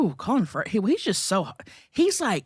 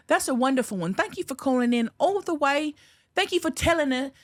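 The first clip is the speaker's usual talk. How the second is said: high, bright phone-in host voice; radio host voice; 8 semitones higher than usual. Pretend. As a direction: thank the caller like a radio DJ. Mock call-in radio host thanks caller.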